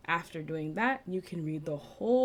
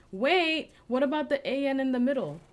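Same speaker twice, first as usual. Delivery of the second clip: puzzled student; 7 semitones higher, 5 dB louder than usual. Pretend. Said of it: "You might be wondering".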